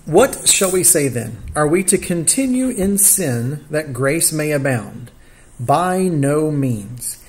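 slow, deliberate Bible reading; scripture reading. Real, not acted. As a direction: read the verse out with drawn-out key words. Reads the scripture verses aloud.

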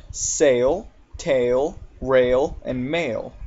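"Sail, tail, rail, and mail" each with an ay vowel; A-I vowel examples. Shown as a demonstration. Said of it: "it makes the A sound".

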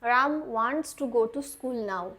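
very slow, word by word; slow model sentence. Shown as a demonstration. Teacher modelling an English sentence very slowly. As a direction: dictate it clearly for learners. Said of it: "Ram এখন স্কুলে যেতে চায়".

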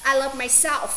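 myself ending on a clear f; final F sounded. Shown as a demonstration. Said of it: "trên này cũng vậy".

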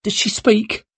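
put-on high old woman voice.

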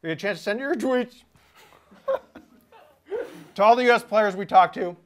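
talking while still chewing; mouth full. Real, not acted. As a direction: outro through a mouthful. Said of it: "misinterpreted how chewy the sandwich was gonna be for my outro".

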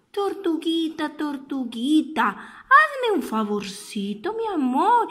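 tender mother. Acted. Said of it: "con sus ojos dulces y tiernos le decía".

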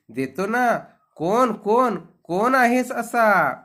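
high, loud, eager questioning of a stranger; astonished questioning. A narrator's reading. Princess asking the unseen voice who it is, astonished. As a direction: call out in high-pitched surprise, demanding who it is.

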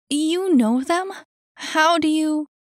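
high, loud, startled questioning; suspicious disbelief. Acted. Annie eyes him suspiciously.

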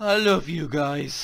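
fake drunk voice. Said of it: "funny drunk voice".

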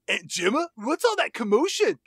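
lightly voiced questioning child; rising, puzzled call to an aunt; Katie. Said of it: "And she says".

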